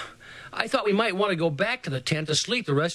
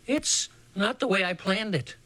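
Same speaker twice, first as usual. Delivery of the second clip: eerie; 4 semitones higher than usual. Acted. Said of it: "the way he said it, it sent cold chills".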